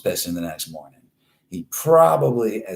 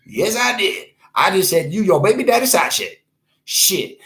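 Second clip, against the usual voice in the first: raised, high-pitched mock defiance; defiant comeback; 9 semitones higher, 4 dB louder than usual. Host owning the insult to the offended one, defiant. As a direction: stand by the insult, high and punchy.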